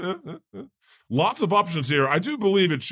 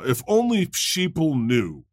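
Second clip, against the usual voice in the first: mocking quote; 3 semitones higher than usual. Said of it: "she says".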